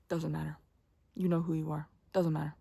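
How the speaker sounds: quiet, low mutter to yourself; calm yourself down under your breath; soft self-reassurance. Retold or imitated. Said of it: "And I would just be like".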